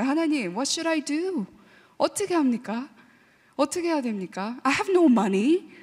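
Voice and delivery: drawn-out, very slow plea to God; slow pleading prayer. Retold or imitated. Young girl praying to God for money, slow plea. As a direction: stretch each word like a desperate child praying. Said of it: "물어보기 시작했어요".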